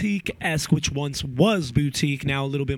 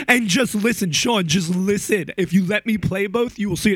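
retold rude demand; 4 semitones higher, 4 dB louder than usual. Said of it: "I had to be mad rude".

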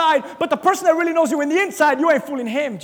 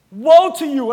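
stern woe; 5 dB louder than usual. Acted. Preacher quoting Jesus' rebuke.

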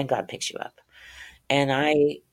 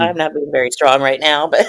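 laughing through real tears; louder, tearful self-deprecating laugh; apologetic laugh while welling up; tearing up; 7 dB louder than usual. Real, not acted. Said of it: "sorry, I'm tearing up over this".

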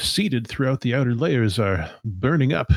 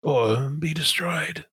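slow, raised villainous threat; Sun Minister De Winton; 6 semitones higher, slower than usual. Acted. Villain threatening those who refuse to join, drawn-out menace. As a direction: stretch it out with theatrical menace. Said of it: "says Sun Minister De Winton".

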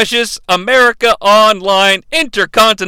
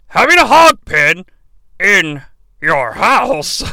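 lordly grandeur; slower than usual. Retold or imitated. Quoting announcer's absurd line.

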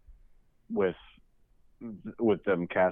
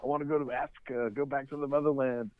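imitating Murtaugh; 7 semitones higher than usual. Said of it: "He's like".

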